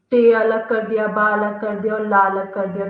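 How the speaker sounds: each syllable टे, बा, ला set apart and stressed; syllables split apart. Shown as a demonstration. Teacher splitting टेबल into syllables for students, sounding each out. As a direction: sound out टे बा ला one by one. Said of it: "टेबल में से अपन ने टी".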